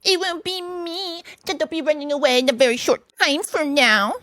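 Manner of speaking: high put-on retort; indignant washerwoman. A narrator's reading. Mole threatening the sentries, indignant. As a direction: warn them in mock outrage.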